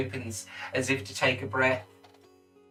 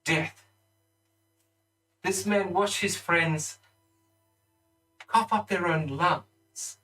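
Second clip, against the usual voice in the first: accusing lord; 5 semitones higher than usual. Acted. Lord accuses before the court.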